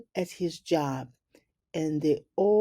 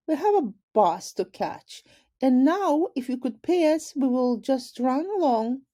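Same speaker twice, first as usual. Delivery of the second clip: high, sassy brush-off; cheeky girl voice; 8 semitones higher, 4 dB louder than usual. Acted. Ivy declining the principal's invitation, high sassy girl voice. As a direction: toss off a bright cheeky refusal. Ivy asking for payment, leaving.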